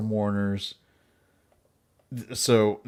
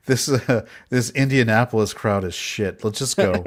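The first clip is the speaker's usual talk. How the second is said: whiny Mary Todd; 3 dB louder than usual. Retold or imitated. Mocking Mary Todd at tour.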